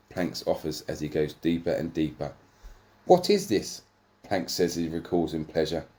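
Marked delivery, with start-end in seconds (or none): 3.0-3.8 high, loud shocked question. Acted. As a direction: gasp it out in disbelief. Character shocked in pleasure.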